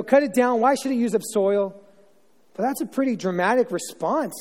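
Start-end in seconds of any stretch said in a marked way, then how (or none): 0.0-1.8 louder, punchy reading of the command; emphatic yell. Shown as a demonstration. Landowner yelling at the gardener to cut the tree, loud. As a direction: hit it hard as a yelled order. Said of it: "yelling going on".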